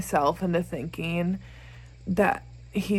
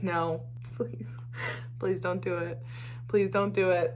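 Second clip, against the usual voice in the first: pleading; 7 dB quieter than usual. Retold or imitated. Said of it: "I was like".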